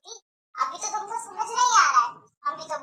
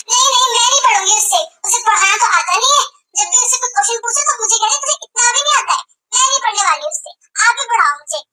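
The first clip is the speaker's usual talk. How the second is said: whiny protest; 5 semitones higher, 9 dB louder, faster than usual. Acted. Daughter refuses sister's tutoring.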